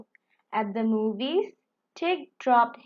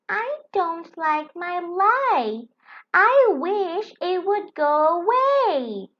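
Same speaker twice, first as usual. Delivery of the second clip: unhappy; 7 semitones higher, 4 dB louder than usual. Acted. Firenze unhappy about her light.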